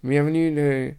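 put-on Polynesian accent. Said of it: "Ils roulent les R".

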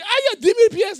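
high, loud mock outburst; excited exclamation. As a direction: exclaim wildly, as if stunned by a fortune. Imite un Haïtien voyant l'argent. (exclamation excitée, aiguë et forte)

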